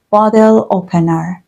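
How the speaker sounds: bottle opener with a small gap between bottle and opener; teacher showing the space in bottle opener; pause between words. Shown as a demonstration. Teacher demonstrating the word gap for students. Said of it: "There is a space between bottle and opener".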